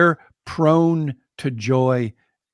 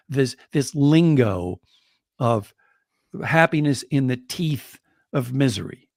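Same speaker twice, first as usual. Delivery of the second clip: ordinary delivery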